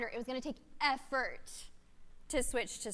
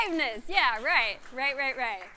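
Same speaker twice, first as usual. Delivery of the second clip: words tumbling through laughter; laughing; 6 dB louder than usual. Real, not acted. Laughing while telling the audience they missed her aliveness joke. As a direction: talk while still laughing.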